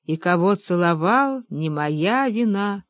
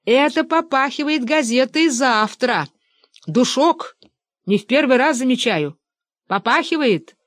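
higher, outraged accusing cry; indignant shouting; 5 semitones higher than usual. A narrator's reading. Lev Lvovich accusing the old man: higher outraged cry. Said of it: "закричал Лев Львович".

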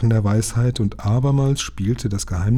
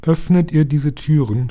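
the dragon recalls its ancient deed; ancient dragon recounting; 6 semitones higher, 4 dB louder than usual. A narrator's reading. Dragon speaks. (alter Drache, feierlich erzählend)

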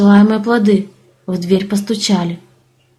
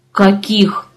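through gritted teeth. A narrator's reading. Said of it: "процедил землянин".

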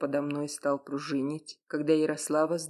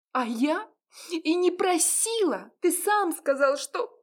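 much higher, louder, a woman choking on tears; tearful protest; 14 semitones higher, 4 dB louder than usual. Acted. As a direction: defend herself while crying. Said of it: "Послышался очередной всхлип". (обиженно сквозь слёзы)

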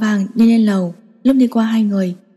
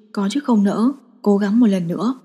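plain reading voice

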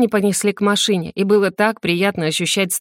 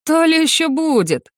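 ordinary delivery

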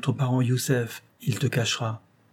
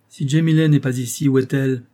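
hard, louder demand; harsh cry; 2 semitones higher, 4 dB louder than usual. Acted. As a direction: bark the question at your brother. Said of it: "Osman s'écria avec dureté". (Osman interpelle durement son frère, voix forte et dure)

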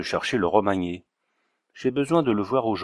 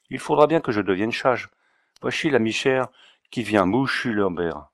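put-on Auvergnat accent. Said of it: "avec son aimable accent".

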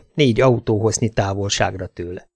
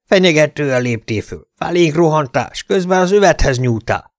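raised, accusing cop voice; Louis yelling; 5 semitones higher than usual. Acted. Louis the cop accusing the detective, mild angry yell. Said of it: "üvöltötte Louis".

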